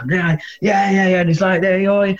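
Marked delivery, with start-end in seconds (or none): 1.6-2.1 higher, bright-eyed greeting of the band; excited welcome. Retold or imitated. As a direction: cheer them in like old mates. Band welcome in dressing room.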